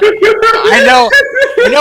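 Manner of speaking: choppy robotic glitching voice; robot voice from a bad connection. Real, not acted. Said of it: "I sound like a robot".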